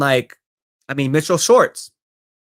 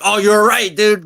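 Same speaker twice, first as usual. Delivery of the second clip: mock sheepish concession; 5 semitones higher, 5 dB louder, slower than usual. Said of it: "he was like".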